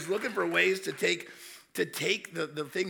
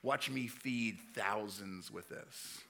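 quiet confident Jesus; 8 semitones lower, 11 dB quieter, slower than usual. Retold or imitated. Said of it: "And Jesus says".

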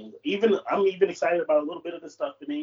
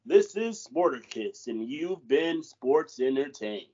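slow, measured sign-off, stretched out; co-host asked for a news sign-off, slow anchor read; slower than usual. Shown as a demonstration. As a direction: read it like closing the evening news, slowly. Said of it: "that was lame".

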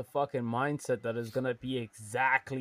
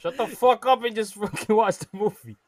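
louder, higher, exasperated outburst; upset; 6 semitones higher, 5 dB louder than usual. Real, not acted. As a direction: snap at them, really fed up. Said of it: "why do you sound so upset".

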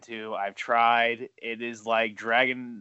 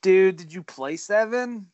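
surprised; 5 semitones higher, 4 dB louder, much slower than usual. Real, not acted. Shocked by Resident Evil dislike.

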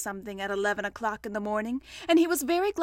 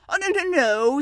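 mildly careless, louder denial; 4 semitones higher, 7 dB louder than usual. A narrator's reading. Pooh denying he is stuck, careless. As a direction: brush it off airily. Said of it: "said Pooh carelessly".

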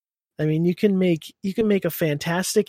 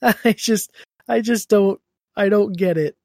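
whiny; 5 semitones higher, 5 dB louder than usual. Real, not acted. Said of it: "you have every right to sound like this".

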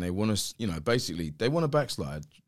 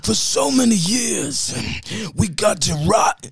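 mock activist rant; 3 semitones higher, 7 dB louder, slower than usual. Mocking the woke crowd to the host, a loud hammed-up rant. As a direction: ham up the grievance of the woke crowd.

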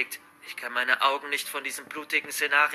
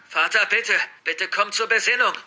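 raised, anxious begging; trembling plea; 4 semitones higher, 4 dB louder than usual. Acted. Son begging father to come round, trembling plea. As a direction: plead urgently, as if trembling. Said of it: "sage ich mit zitternder Stimme".

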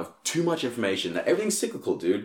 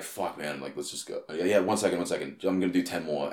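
doubting inner voice; 3 semitones lower, 5 dB quieter than usual. Retold or imitated. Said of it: "I'll tell my voice that'll be like".

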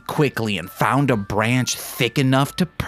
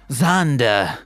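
Australian accent. Shown as a demonstration. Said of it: "as Australian".

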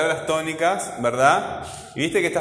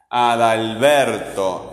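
very slow "Adalberto", BER drawn out; stress on BER; 3 semitones lower, much slower than usual. Shown as a demonstration. Teacher telling pupil not to guess, stress on BER in "Adalberto". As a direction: stretch "Adalberto" and lean on BER. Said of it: "Escucha el sonido".

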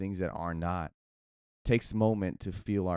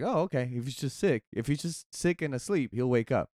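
naive disciples; 6 semitones higher than usual. Retold or imitated. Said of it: "His disciples like".

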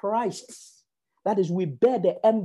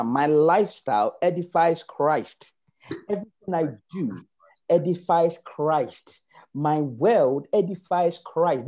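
slow declaration; 4 semitones lower, slower than usual. Acted. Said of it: "Yes, declare right now".

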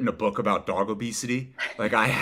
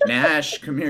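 talking to a dog; 4 semitones higher than usual. Real, not acted. Calling dog to camera.

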